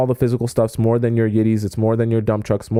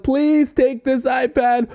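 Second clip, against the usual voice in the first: high, slow mock plea; acted begging; 11 semitones higher, slower than usual. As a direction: beg them, pitched well up. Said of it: "and I'm begging people".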